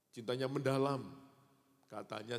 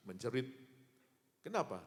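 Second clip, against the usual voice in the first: usual speaking voice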